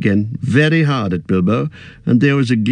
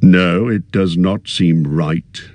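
thoughtfully; slower than usual. Acted. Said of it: "he said thoughtfully".

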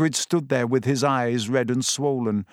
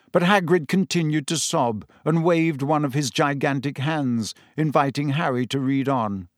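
letter read aloud; 2 semitones higher than usual. A narrator's reading. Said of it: "read aloud".

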